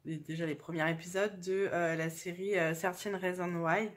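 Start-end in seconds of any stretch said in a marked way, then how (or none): 2.7-3.9 English title in a thick French accent; English words pronounced the French way. Real, not acted. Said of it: "avec mon super accent".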